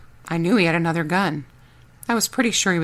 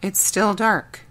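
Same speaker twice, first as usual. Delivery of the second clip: lightly voiced sleepy child; 3 semitones higher, slower than usual. Child answers.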